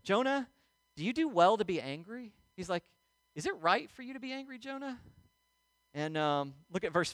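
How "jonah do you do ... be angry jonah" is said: gentle, higher-pitched questioning; loving counselor. Acted. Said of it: "as a good, loving counselor would".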